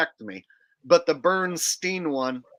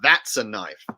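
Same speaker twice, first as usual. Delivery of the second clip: slow quoted line; 4 dB louder than usual. Retold or imitated. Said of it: "always remembered it as".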